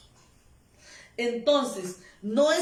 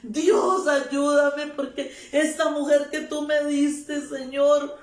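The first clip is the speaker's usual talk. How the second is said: mock desperate prayer, raised voice; imitating a tearful plea; 2 semitones higher, 3 dB louder than usual. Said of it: "personas que están llorando y dicen". (súplica llorosa imitada, en voz más alta)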